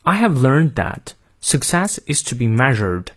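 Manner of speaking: American "learned" and "measured" with the r sounded; American accent. Shown as a demonstration. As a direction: rhotic American model reading. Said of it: "最后再练一遍美音". (美音领读，念出元音后的r)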